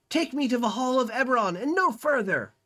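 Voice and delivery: high commanding yell to his bearers; the wizard orders his palanquin away; imperious shout. Acted. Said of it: "and yells".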